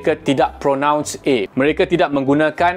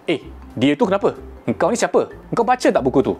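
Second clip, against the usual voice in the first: everyday Malay chat, final a as e; colloquial Malay accent; 4 semitones higher, faster than usual. Shown as a demonstration. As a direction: talk like a Malay local, ending words in e. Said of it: "Tengok cara saya pronounce dia".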